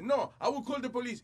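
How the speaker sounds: high, stiff French manager; French accent. Retold or imitated. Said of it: "el tipo como tiene acento francés". (amenaza con acento francés)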